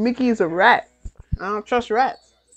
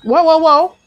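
loud, alarmed whoas; jumping back in real surprise; startled whoa; 6 semitones higher, 14 dB louder than usual. Real, not acted. Startled by an attack.

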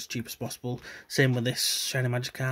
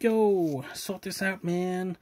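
mock demand; 5 semitones higher, much slower than usual. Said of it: "and be like".

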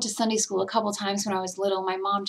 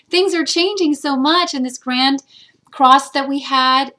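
laughing through tears, higher and louder; emotional laugh; 4 semitones higher, 8 dB louder than usual. Real, not acted. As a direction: break into a teary laugh. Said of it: "phew, emotional".

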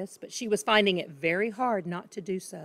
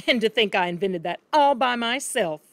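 proud; 2 semitones higher, 4 dB louder than usual. Acted. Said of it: "he added proudly".

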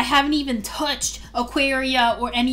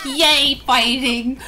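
happy cheer; 4 dB louder, much slower than usual. Acted. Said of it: "Oh, he's happy".

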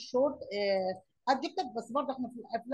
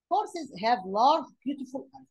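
slow dictation; 4 dB louder, much slower than usual. Shown as a demonstration. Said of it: "teacher reading example sentence".

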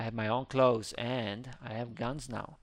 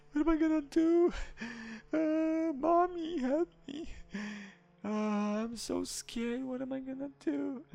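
mock scared; 11 semitones higher than usual. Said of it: "I'm scared".

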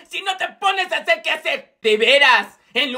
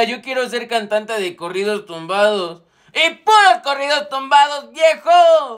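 mumbled dream that bursts into a shout; sleep-talk, then yell the last words; dreamy outburst; 2 semitones lower than usual. Acted. Emilio sueña y grita. (sueño que termina en grito)

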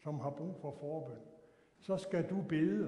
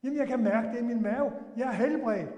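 louder, eager and thrilled; a bit higher, thrilled; excited insistence; 6 semitones higher, 9 dB louder than usual. Retold or imitated. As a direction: insist gladly he is healed. Healed man insists excitedly.

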